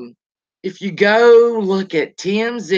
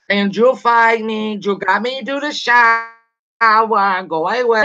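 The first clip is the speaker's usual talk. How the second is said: mock hollering; 3 semitones higher than usual. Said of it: "screaming and hollering at him. Well, not really screaming".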